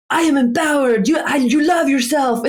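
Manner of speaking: high, hammed-up Italian guru voice with a laugh; imitating a cheesy Italian meditation guide, Italian accent throughout; mock Italian accent. S0 imitating the Italian meditation app guide, Italian accent. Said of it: "Italian guy with a great Italian accent".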